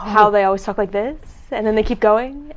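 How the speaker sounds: "like this" and "going" lifted like questions; uptalk. Shown as a demonstration. Demonstrating uptalk that bothers her, rising endings on "this", "going". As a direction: end "this" and "going" on a questioning rise. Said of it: "just demonstrate a couple more sentences".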